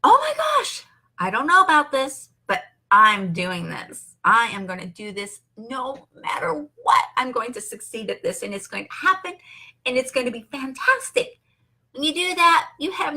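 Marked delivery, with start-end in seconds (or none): 0.0-11.4 pep-talk excitement. Pretend. Speaker modelling excited self-talk for viewers facing new tasks. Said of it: "take that feeling of".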